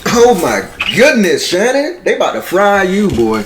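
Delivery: high, drawn-out dismay; shocked reaction. Real, not acted. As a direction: wail it high like bad news just landed.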